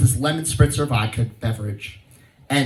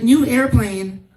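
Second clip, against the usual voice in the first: mock disbelief; 7 semitones higher than usual. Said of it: "I was like".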